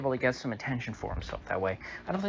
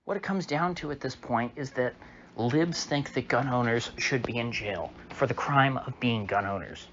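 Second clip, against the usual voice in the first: ordinary talk, nothing marked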